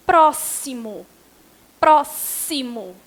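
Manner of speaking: slow "Próximo", X sounded as SS; X as double S. Shown as a demonstration. Teacher showing X with SS sound, "Próximo" slowly sounded out. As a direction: break "Próximo" into syllables with a hissed SS for the X. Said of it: "O X com som de S S".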